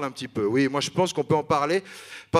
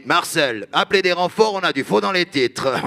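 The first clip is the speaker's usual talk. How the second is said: imitating a cop; 2 semitones higher, 4 dB louder than usual. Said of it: "puis il me dit".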